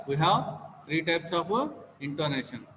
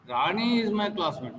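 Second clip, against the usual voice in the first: "Rani" punched higher than the rest of the sentence; stress on Rani; 3 semitones higher than usual. Shown as a demonstration. Teacher shows only Rani is meant, stress on "Rani". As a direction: lean hard on "Rani", let the rest fall. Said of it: "Only among them, Rani is my classmate".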